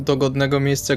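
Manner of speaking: ordinary delivery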